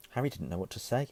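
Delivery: plain reading voice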